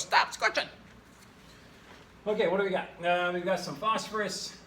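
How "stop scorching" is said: hoarse whispered cry of panic; freaked-out reaction. Acted. Teacher acting the panicked other side of the reaction, whispered cry. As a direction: rasp out a frantic plea. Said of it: "the other side freaks out and goes".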